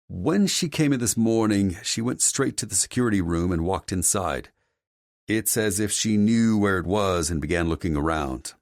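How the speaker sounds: a hint of earnest security man; concerned security chief. Security head reports an incident to his boss, earnest character voice.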